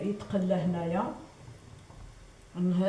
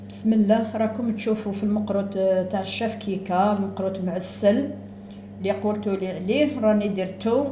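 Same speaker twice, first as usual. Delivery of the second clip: louder, beaming presentation of the finished dish; proud reveal; 6 dB louder than usual. Real, not acted. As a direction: show it off with pride. (عرض بفخر وحماس)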